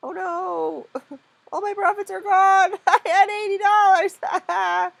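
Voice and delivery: loud, high wail through laughter; laughing dismay. Real, not acted. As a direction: cry out your lost profits, laughing. Laughing as trading profits vanish.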